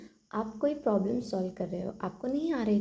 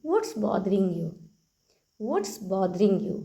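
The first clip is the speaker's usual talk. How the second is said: very slow, word by word for learners; slow model sentence; 4 dB louder, much slower than usual. Shown as a demonstration. Teacher repeats the phrase for the class, very slow. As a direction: lay each word out slowly. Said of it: "कहिए".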